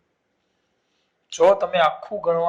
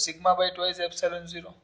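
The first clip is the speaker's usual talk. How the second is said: slow dictation; 3 dB quieter, much slower than usual. Shown as a demonstration. Teacher dictating the formula to students, slowly. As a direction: spell out the formula word by word, slowly.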